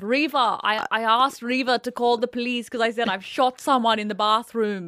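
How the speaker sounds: hint of a South African accent, half-joking. Showing her friend the South African accent she loves. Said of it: "I love doing his accent".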